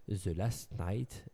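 put-on The Last Night said slowly in a heavy French accent; mock French accent. Host jokes about his own English title, heavy French accent. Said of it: "avec mon super accent".

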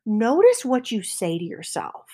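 normal talking voice

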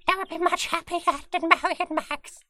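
very high squeaky ferret voice. Pretend. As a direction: squeak back like a ferret student. Ferret voice role play.

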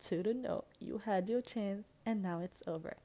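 put-on retelling a sassy no to a boy who wants her back now; sassy brush-off. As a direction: shut him down with attitude, a sing-song bye. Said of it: "And I said".

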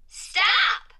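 high, loud, abrupt halt; firm command. A narrator's reading. Period ending each sentence, high loud command. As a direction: call a sudden halt. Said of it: "Period brought each sentence to a tidy end".

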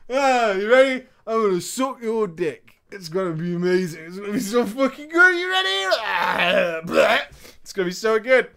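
put-on high, sloppy drunk voice; slurring drunk girl. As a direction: play her drunk and slurring. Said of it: "very drunk and slurring her words".

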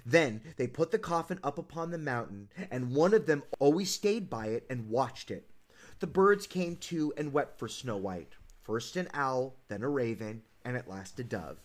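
low, measured fairy-tale reading; storybook narration. A narrator's reading. Host reading Snow White's funeral, solemn storybook narration. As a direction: read it as a solemn bedtime tale, dropping low at the end.

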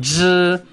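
"zh" buzzed; Mandarin zh. Shown as a demonstration. Teacher showing the Mandarin zh sound. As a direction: buzz the zh. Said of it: "fun sounds".

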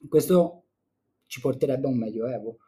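hoarse, strained voice. Real, not acted. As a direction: push through a hoarse throat. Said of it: "scusate per la voce".

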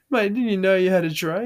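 loud, high-pitched incredulous question; acted-out exasperated astonishment; retold disbelief. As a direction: exclaim it like you can't believe your mate. Acts out disbelief at his mate.

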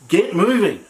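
God's voice getting them moving; God urging. Retold or imitated. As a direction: urge the people to their feet. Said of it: "here's God's voice coming back in and says".

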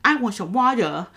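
mild imitation of a baby-talked child. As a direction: say it in mushy baby speech, lightly mocked. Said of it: "if you baby talk a baby".

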